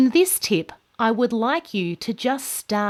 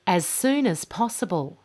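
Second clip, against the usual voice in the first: "soon" lifted and stretched, falling after; stress on soon. Shown as a demonstration. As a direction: lean on "soon" and let it fall. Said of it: "Listen to this part".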